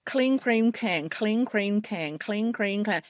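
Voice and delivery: slow, careful repetition; slow drill. Shown as a demonstration. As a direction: drill the phrase slowly. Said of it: "I didn't read it".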